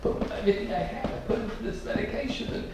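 high, breathy, distraught plea; mock bawling mother. Mother weeping to the pharmacist, high distraught plea. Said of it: "and she's bawling, and she says".

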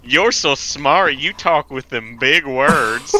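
slow, hammed-up country drawl; country accent. Country girl admires the city stranger, slow country drawl. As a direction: gush slowly in a country accent. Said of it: "doing it with a northern country accent".

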